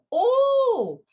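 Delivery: a loud, very high oh of fake surprise; mock recognition. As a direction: pretend to place the name. Hunter scoffs at Bhishma's name.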